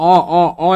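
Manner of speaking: "অ" as an open vowel, no h; vowel sound demo. Shown as a demonstration. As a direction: repeat "অ" firmly as a bare vowel. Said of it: "এইচের উচ্চারণ এইচের মতো না". ("অ" স্বরধ্বনি, হ ছাড়া)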